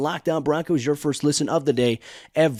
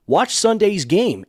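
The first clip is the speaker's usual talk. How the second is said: quoting the coach's promise; 5 semitones higher, slower than usual. Retold or imitated. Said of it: "he said".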